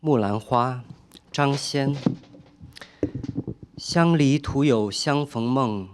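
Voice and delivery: measured Chinese verse recital, falling at line ends; solemn poetry reading in Mandarin; poem recitation. Acted. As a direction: recite a classical Chinese poem, letting each phrase settle.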